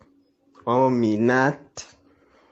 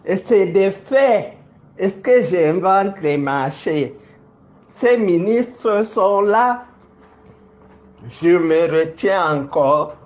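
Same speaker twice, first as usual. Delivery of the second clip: raised, defiant accusing voice; heated; 5 semitones higher than usual. Real, not acted. Public accusation, defiant heated denunciation.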